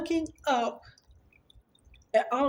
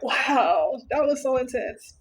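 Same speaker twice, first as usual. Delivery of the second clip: a bit louder, amazed "Wow, that was so intense"; awed; 3 semitones higher, 3 dB louder than usual. Retold or imitated. Wife telling husband, amazed and louder. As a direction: say "so intense" with awe. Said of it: "I was like".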